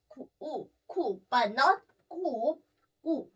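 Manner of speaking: enye spoken as "ku" with no puff of air; unaspirated k. Shown as a demonstration. Teacher demos unaspirated "ku" for Spanish Q. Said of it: "we do not aspirate this".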